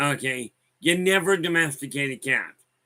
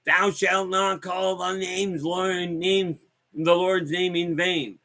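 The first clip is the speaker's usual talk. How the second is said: slow, high, preachy scolding voice; preachy umbrella lady; 3 semitones higher, slower than usual. Retold or imitated. Umbrella-waving woman scolds the narrator, slow and preachy. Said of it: "She's going".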